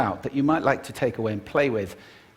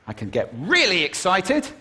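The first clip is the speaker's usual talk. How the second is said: sudden raised burst of excitement; excited loud burst; 6 semitones higher, 4 dB louder than usual. Shown as a demonstration. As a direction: startle them with an excited surge of volume. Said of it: "by using volume".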